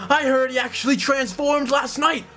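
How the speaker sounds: very high, frenzied villager; another mob voice. Acted. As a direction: build to a high-pitched cry for punishment. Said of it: "like, another voice".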